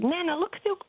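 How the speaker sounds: put-on high little girl's voice, eager; child voice. Granddaughter showing Nana her toy cars, high and eager. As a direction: play the excited toddler tugging at Nana.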